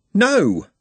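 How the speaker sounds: high, loud cry of denial; anguished refusal. A narrator's reading. Trev told his friend is for the morgue, anguished. Trev rejects that Nutt is dead.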